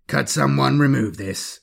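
composed, understated character voice; calm request. A narrator's reading. Gnome asking help with a scarab on him, calmly. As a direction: ask it evenly, as if mildly troubled. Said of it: "Gnome asked calmly".

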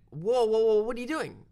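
high, loud panicked whoa; alarmed shout. Retold or imitated. Director stops actor running to call police, loud panicked yell. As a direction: stop him with a sudden yell. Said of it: "and I went".

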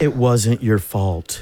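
drawn-out "it wasn't your fault"; slow mock consoling. Friend pretending to console the Australia-hater, slow mock consoling. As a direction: repeat it slowly, as mock therapy. Mock comforting, repeated slowly.

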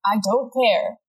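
rough sick-voice Casey impression; flat gruff tough-guy line. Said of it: "with my, like, sick voice, I would sound a little bit more like Casey".

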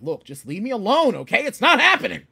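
loud, high furious tough-guy outburst; shouting hammed-up gangster fury; Joe Pesci rant. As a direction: blow up like a hothead gangster. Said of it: "I turn into Joe Pesci from Goodfellas".

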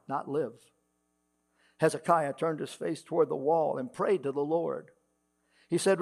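measured, ringing King James reading; scripture reading. Acted. Pastor reads Isaiah to the standing congregation, solemn reading voice. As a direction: read the old words out to the congregation with weight.

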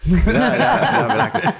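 high laughing no no; laughing denial. Real, not acted. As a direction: laugh off the wrong word. Laughing denial of suggested word.

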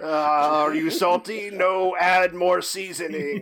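slow drawn-out pirate voice; mock pirate. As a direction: ham up a grumpy pirate. Joking about salty undead.

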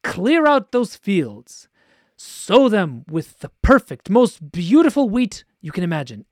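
slow, commanding call to her helpers; calling out loud. Acted. Vasilisa calling her friends to clear the fields, slow call. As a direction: rouse the whole land. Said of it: "called out with the loudest voice she could".

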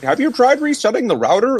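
high, stiff chatbot voice; robot voice. Retold or imitated. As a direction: mimic a canned support bot.

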